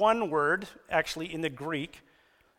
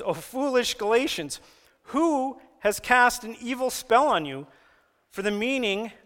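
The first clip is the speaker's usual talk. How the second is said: raised, scolding scripture reading; fired-up Paul; 4 semitones higher than usual. Acted. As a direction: read it like an exasperated apostle. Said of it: "Paul's a little fired up here".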